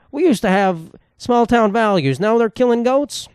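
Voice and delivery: outraged small-town parent. Retold or imitated. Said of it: "They go".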